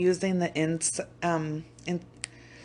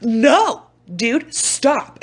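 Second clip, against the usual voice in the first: mild mock yell, higher and louder at the start; retold yell; 4 semitones higher, 4 dB louder, much slower than usual. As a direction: act out snapping at your kid. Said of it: "I yell at you and I'm like".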